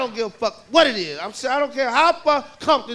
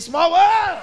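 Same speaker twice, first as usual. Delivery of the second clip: put-on high, loud kid chant; wild kids chanting the ride song; kids yelling; 7 semitones higher, 4 dB louder than usual. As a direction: yell it like a rowdy kid.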